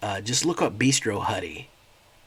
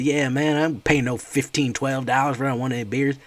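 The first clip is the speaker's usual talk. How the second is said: loud, higher indignant complaint; outraged customer; 6 semitones higher, 6 dB louder than usual. Retold or imitated. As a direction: refuse to pay that much. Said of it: "He says".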